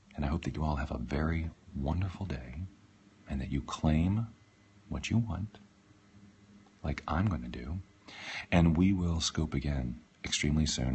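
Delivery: speaking in an ASMR-style voice. Ending a live scope and saying goodbye to viewers, in an ASMR voice. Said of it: "in my A S M R voice".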